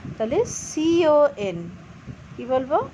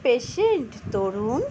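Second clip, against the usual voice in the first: slow, careful read-aloud of a story line; 5 semitones higher, 3 dB louder, much slower than usual. Shown as a demonstration. Teacher slowly reading a story line aloud to students. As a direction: read each word out slowly for the class. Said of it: "said the grandfather".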